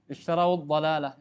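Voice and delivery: teacher models the phrase for the student; model reading. Shown as a demonstration. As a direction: say "Ishtarawud dhalalah" linking waw with dhammah into dhalalah.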